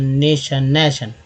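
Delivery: नेशन with "ay", नैशन with open "ae"; trial pronunciations. Shown as a demonstration. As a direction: sound out नेशन, then नैशन. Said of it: "नैशन नहीं उच्चारण होगा". (नेशन और नैशन, स्वर बदलकर)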